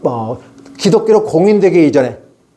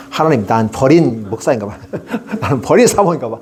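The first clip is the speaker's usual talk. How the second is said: laughing lament; 5 semitones lower than usual. Retold or imitated.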